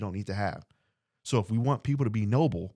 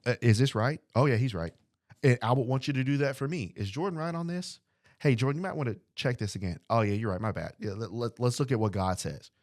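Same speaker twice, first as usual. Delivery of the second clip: imitating a humble checker. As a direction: play a humble brother checking and accepting correction. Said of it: "I'm gonna check you".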